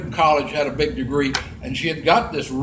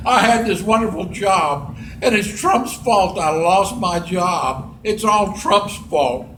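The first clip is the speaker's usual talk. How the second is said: hammed-up tearful whine; mock crying; 2 semitones higher than usual. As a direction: imitate a weepy complainer, dragging the words. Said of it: "she's crying and she's saying".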